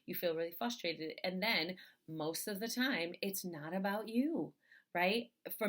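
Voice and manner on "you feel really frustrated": soft, understated note of care; gently name what you notice; mildly tender, softer check-in; compassionate observation. Shown as a demonstration. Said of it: "pose that question from a place of compassion".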